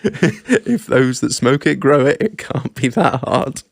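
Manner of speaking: slow, deliberate mock quotation; mock quote of the day. Co-host repeats his mate's quote of the day, slow mock recital. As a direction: slowly recite it like a famous quote. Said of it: "that was a quote of the day".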